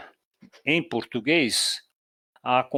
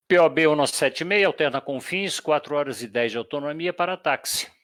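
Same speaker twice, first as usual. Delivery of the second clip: piloto no rádio. Shown as a demonstration. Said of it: "como é que ele vai voltar".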